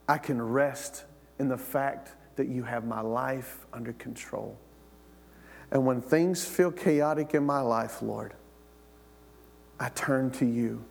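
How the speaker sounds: hushed heartfelt prayer voice. Acted. Pastor prays aloud to the Lord.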